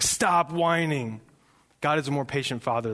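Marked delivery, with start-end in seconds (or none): 0.0-1.2 slow, drawn-out parental scolding; mock-stern dad's reprimand; exasperated parent. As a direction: imitate a fed-up father cutting off whining. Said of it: "I'm just like".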